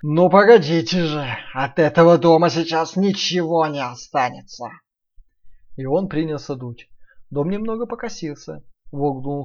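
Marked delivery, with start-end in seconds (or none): 0.0-4.7 loud snarling threat, wolf voice; wolf growl. Acted. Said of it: "и зарычал".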